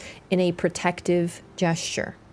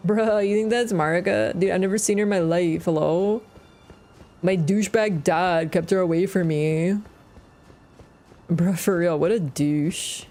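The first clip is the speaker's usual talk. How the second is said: put-on frat boy voice. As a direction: talk like a party-bro frat guy. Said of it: "Make that Miquelin beautiful frat boy voice".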